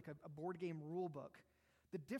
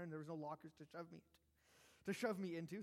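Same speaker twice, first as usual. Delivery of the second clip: breathless, words pushed out; short of air, gasping through it; out of breath. Real, not acted. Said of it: "Sorry, I'm running out of breath".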